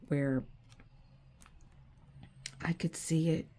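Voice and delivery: soft whisper, holding back tears; real hushed whisper about the keepsake. Real, not acted. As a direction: let it fall to a whisper. Tender memory of late dog.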